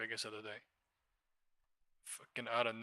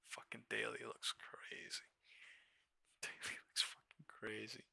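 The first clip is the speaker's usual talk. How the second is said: unvoiced hushed whisper, much softer; awed whisper; 10 dB quieter than usual. Real, not acted. Trader whispering in awe at the wild daily chart. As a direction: breathe it in awe.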